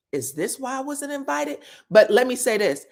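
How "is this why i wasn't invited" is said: through gritted teeth. Retold or imitated. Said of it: "talking through their teeth".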